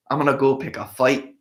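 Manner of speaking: lightly attempted, unconvincing Scottish accent; Mel Gibson, bad Scottish accent. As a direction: quote a film line in a half-hearted bad Scottish brogue. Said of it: "That's my bad Scottish accent".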